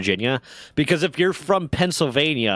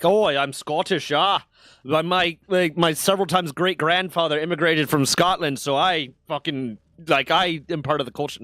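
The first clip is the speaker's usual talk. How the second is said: bad Scottish accent; 5 semitones higher than usual. Mocking a pretentious heritage claimer, bad Scottish accent. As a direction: play a smug American claiming Scottish roots. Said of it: "so pretentious as to be like".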